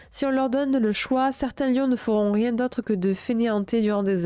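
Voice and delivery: even, projected reading voice; written-text narration, a little lifted; horoscope read aloud. A narrator's reading. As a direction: read it out clearly in measured phrases.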